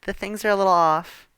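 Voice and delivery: a hint of a picky mother; mom voice. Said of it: "Mom's like".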